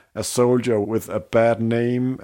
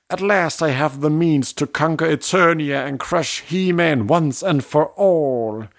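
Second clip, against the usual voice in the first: villain boast; 5 semitones higher than usual. Retold or imitated. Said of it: "Skelly says".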